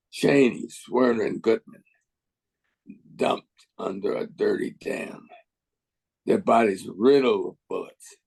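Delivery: deliberate spoken-word delivery with weighty pauses; measured protest poem, phrase by phrase; poem recitation. Acted. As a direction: recite each image, pause, then state the refrain. Recites own poem, Racist Country.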